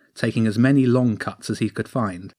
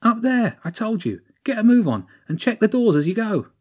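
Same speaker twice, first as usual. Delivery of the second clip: hissed; 12 semitones higher than usual. Acted. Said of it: "a second voice hissed".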